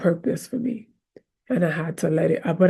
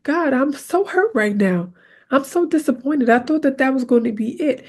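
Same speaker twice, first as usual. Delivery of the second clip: voicing a hurt prayer; 5 semitones higher than usual. Shown as a demonstration. Preacher voicing a hurt prayer to God, raised and earnest. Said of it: "you gotta tell God you upset".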